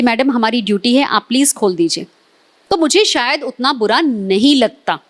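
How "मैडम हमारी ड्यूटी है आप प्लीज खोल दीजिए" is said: polite request. Retold or imitated. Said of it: "विनम्र तरीके से बोलते".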